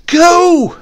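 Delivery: high, loud, shrill command to the dog; old woman's shrill command to her dog, loud and high; shrill cry. Acted. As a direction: bark the order sharply and high. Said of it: "in a shrill tone".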